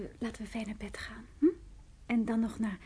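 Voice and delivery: tender whisper. Real, not acted. Tender invitation to bed.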